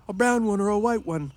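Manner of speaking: Lenny begging George about the puppy, excited and high. A narrator's reading. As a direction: burst out like a thrilled child. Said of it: "Lenny cried excitedly".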